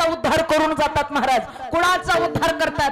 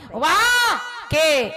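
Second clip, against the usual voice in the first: mumbled call; slower than usual. Retold or imitated. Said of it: "नातवाला सुनाला आवाज देतंय".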